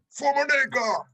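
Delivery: high, loud war cry; battle cry. Acted. Game master voices charging barbarians, shouted war cry. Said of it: "you hear them calling out".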